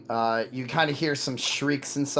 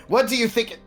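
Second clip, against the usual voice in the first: high, loud startled yell; dopey cartoon bellow; 10 semitones higher, 6 dB louder, faster than usual. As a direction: yell it through the door. Guard shouts from opened door.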